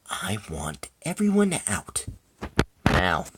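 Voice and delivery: slow, deliberate order; restrained anger with a firm final word; contained anger. Acted. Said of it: "now you're angry".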